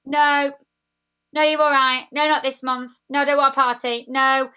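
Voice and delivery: firm refusal. Retold or imitated. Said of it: "Every time she was like".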